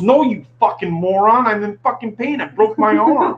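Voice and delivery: exasperated cursing, played up; acted angry girl. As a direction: imitate an injured girl losing patience. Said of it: "She goes".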